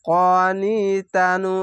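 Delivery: slow, drawn-out chanted recitation; Quranic recitation. Shown as a demonstration. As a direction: recite each word slowly with tajweed. Recitation slip then corrected.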